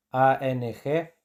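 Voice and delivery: A N G spelled out slowly; teacher spells the letters slowly. Shown as a demonstration. Slow spelling. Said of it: "Antes de N G, el vocal cambia".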